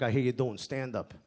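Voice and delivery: low, lightly voiced tough uncle; menacing uncle. Uncle with an arm round the comedian's neck, quietly menacing. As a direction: keep it low, a hint of threat. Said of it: "he's like".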